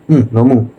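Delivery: "Eng, nomu." with a falling tune; "Eng, nomu." said downward; "Eng, nomu." said as a plain yes; falling answer. Shown as a demonstration. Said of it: "Kayak nadanya ke bawah".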